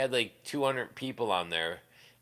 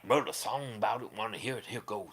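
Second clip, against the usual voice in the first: imitated accent like the Wayans brothers' dad, trailing softer; Bad Brad accent; 3 dB quieter than usual. Quoting the dad's song intro in a mock Bad Brad accent. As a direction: do that put-on accent, tailing off. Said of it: "that's who Bad Brad's accent sounds like to me".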